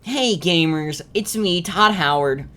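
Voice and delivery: Todd Howard impression. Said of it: "He kinda sounds like this".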